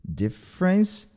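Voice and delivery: DIFFERENCE as "dif-rence", rising at the end; two syllables. Shown as a demonstration. Teacher models for learners, two-syllable pronunciation. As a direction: drop the middle vowel of "Difference". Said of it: "duas sílabas".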